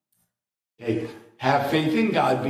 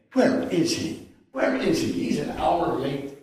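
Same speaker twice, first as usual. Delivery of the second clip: mock impatient fretting; 6 semitones higher than usual. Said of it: "And she can tell I'm angry".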